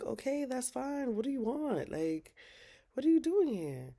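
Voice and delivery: mock incredulous Zach. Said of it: "Zach was like".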